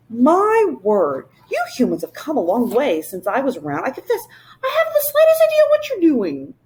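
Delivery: high, quick and eager creature voice; a bouncy little creature popping in; high fluttery royal creature; Whangdoodle voice. Acted.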